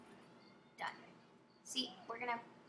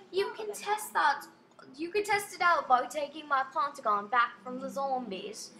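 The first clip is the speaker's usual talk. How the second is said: Matilda; 4 dB louder than usual. Acted. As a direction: read the game lady in mock British. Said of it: "I'm trying to go British".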